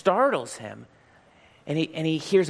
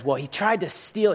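lightly voiced huffy old woman, higher; indignant old woman; 7 semitones higher, 3 dB louder than usual. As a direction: complain in a put-on old lady voice.

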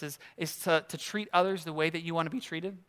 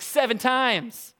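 slow, proud seven times; smug; 4 semitones higher, 3 dB louder, much slower than usual. Retold or imitated. Peter showing off his generosity to Jesus, slow and smug. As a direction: savor it like a big number. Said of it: "He's like".

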